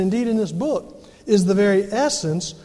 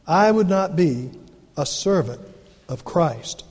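scripture reading. Acted. Preacher reading Galatians to the congregation, solemn and measured. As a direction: read the Bible passage out with weight. Reads Galatians aloud in sermon.

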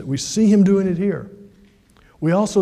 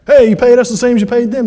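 louder, higher, fast mock protest; upset workers; 5 semitones higher, 8 dB louder, faster than usual. Early workers complain to the vineyard owner about pay, upset. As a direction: imitate indignant workers calling out a complaint. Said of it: "And they were upset".

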